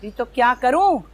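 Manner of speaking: angry outburst. Acted. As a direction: throw the blame back heatedly. Jealous wife quarrels with rival.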